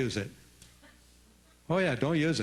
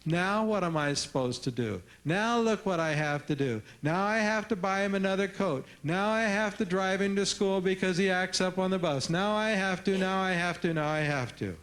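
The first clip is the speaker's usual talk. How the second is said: mock complaining, pitch climbing higher as it piles up; whiny put-upon parent; 5 semitones higher than usual. Pathetic parent griping about the kid, mock whining. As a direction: whine each "now I have to" like a martyr. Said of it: "they talk like this".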